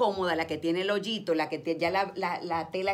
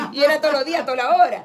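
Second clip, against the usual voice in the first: words spilling out through real laughter; high, loud and laughing; 6 semitones higher, 14 dB louder, much faster than usual. Real, not acted. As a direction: laugh loudly while saying it. Laughing at shared memory.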